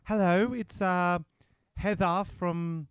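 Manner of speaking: a hint of a chirpy office woman; Heather voice. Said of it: "I can do woman".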